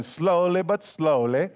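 slow, playful imitation of an Italian accent. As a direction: mimic a thick Italian accent, amused. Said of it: "he's got a thick Italian accent".

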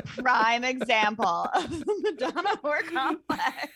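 speaking through laughter; giggling explanation; laughing. Real, not acted.

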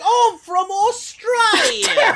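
high, drawn-out mimicry; hammed-up, squeaky newcomer introduction; mocking imitation. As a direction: stretch it out high in a silly mock voice. Mocking Kat's Australian introduction.

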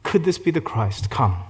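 loud, high call to the townspeople; woman running into town, calling people to come; excited calling out. Retold or imitated. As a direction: shout the news across town, thrilled. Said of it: "she runs into town and she says".

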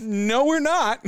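defiant retort. Retold or imitated. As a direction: laugh it off and refuse. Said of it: "And I went".

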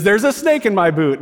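high, loud voice-box line; pull-string toy voice. Retold or imitated. Pastor voicing Woody's pull-string doll, high and loud. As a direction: play the talking cowboy doll's recorded line. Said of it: "pulls the string and it says".

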